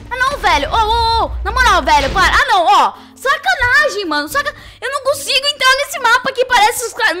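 furious ranting. Real, not acted. Streamer killed on spawn again, furious yelling. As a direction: rage at being killed again. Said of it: "eu tô muito puta".

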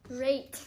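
"Rate" with a clear long a; rate said clearly. Shown as a demonstration. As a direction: spell out "Rate" as rate not rent. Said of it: "Rent or rate?".

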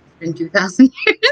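giggling through the words; laughing while talking. Real, not acted. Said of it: "but I'm just laughing".

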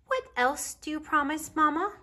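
little bear cub. A narrator's reading. Baby Bear asks Mama while walking the riverbank, little cub voice.

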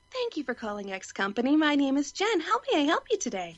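a lightly put-on customer service greeting; corporate phone voice. Shown as a demonstration. She shows her friend her corporate voice, lightly put-on phone greeting. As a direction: answer the phone sweetly, like a call center rep. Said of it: "here's my corporate voice".

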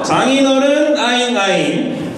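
slow whiny aegyo; cutesy baby talk. Pretend. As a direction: whine it cutely, dragging out. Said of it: "장인어른께 애교 한번 가겠습니다".

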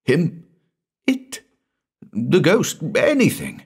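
wild, high-pitched outburst; acted frantic terror. A narrator's reading. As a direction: blurt it in bursts, pitch leaping up. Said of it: "said Hurst, wildly".

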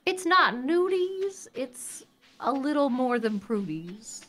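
slow, lilting southern rhyme; sing-songy southern accent. Real, not acted. Co-player clearing up what the pictures were, sing-songy southern accent. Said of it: "It's like a little sing-songy".

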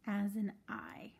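whispered aside. Shown as a demonstration. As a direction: breathe it out as a whisper. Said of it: "we read I G H".

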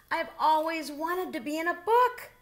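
high, eager delight; excited. A narrator's reading. Bear telling himself his dream, high and excited. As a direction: gush about finally being in a book. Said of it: "Bernard cried".

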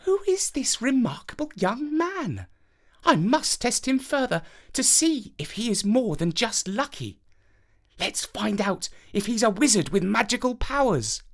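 a curious princess plotting a test; princess thinking. A narrator's reading. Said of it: "inside she was thinking".

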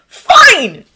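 loud, high, exasperated shout; high frustrated yell; called out. A narrator's reading. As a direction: call it out, giving in. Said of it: "he called".

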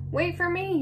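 high-pitched calling out; storybook chick's eager, high call; shouted. A narrator's reading. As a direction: call after someone, voice way up. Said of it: "he shouted".

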